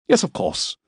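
impatiently. A narrator's reading. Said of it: "he said impatiently".

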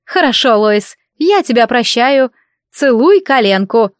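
slow, gracious royal pardon; queenly magnanimity. Acted. Mother forgives the sorcerer, slow and regal. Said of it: "с великодушием королевы".

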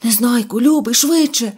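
a touch of frightened urgency; fearful. A narrator's reading. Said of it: "тремтячим від страху".

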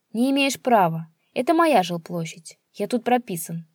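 shrill it out indignantly; father protesting his rights; squealing protest. Acted. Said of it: "верещал отец".

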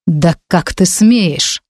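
slow, icy, held-back rage; cold fury. Acted. Duchess to the heroine, slow icy fury. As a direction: freeze her with each word. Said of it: "с холодной яростью ответила герцогиня".

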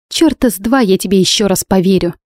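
usual speaking voice

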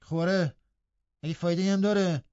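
a hint of a sulky mutter; grumbling. Hareton grumbles back at Linton, lightly voiced. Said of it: "با قرولند گفت".

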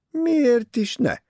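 high, slow and amused, a laugh in the voice. A narrator's reading. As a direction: toss it off with a chuckle. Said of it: "Nevetett Tim".

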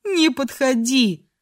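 drawn-out, mildly panicked warning; near-hysterical cry. A narrator's reading. Crying girl repeats warning to man, almost hysterical. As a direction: stretch the plea out, close to hysteria. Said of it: "почти истерическим голосом закричала девушка".

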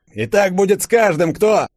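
high, loud orating soldier; soldier's speech. A narrator's reading. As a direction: start a threatening speech. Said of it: "начал было толкать речь". (солдат начинает грозную речь)

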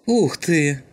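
high, loud delighted gasp of a word; light up at the sight; excited exclamation. A narrator's reading. Shum sees the magazine, exclaims with delight. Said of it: "воскликнул Шум".

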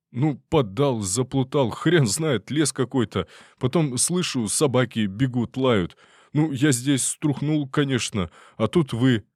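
high, rambling pitiful voice; detainee's excuse. Acted. Detainee explains to soldiers, high pitiful rambling. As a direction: babble it like a scared drunk.

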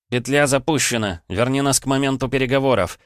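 firm loud command. Acted. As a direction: order it sharply. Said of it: "скомандовал я алтарю".

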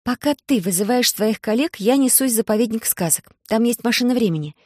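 звонкий детский голос, заметно выше; бойко, по-девчачьи; девочка Алиса. Acted. Голос Алисы. (Алиса, высоким детским голосом)

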